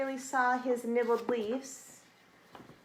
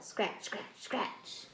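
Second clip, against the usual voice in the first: breathy hushed scratching; soft whispered digging sounds; 5 dB quieter, much slower than usual. A narrator's reading. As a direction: whisper it like tiny paws digging.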